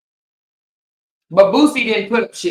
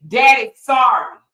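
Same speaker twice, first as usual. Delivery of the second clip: mock pleading dad; 3 semitones higher than usual. Mocking a rapper apologizing to his daughter, pleading dad. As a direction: plead like a sorry daddy. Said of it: "is what he said".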